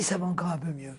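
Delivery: ordinary delivery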